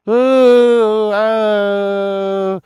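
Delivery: loud high thrilled ooh; light up at the idea; excited ooh. Real, not acted. Streamer excited by the song idea, loud and high.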